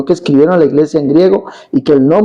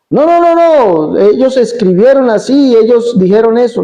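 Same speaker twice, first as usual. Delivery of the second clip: insistent woman; 5 semitones higher than usual. Retold or imitated. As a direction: mimic her stubborn denial. La señora insiste. (imitando a la señora que insiste)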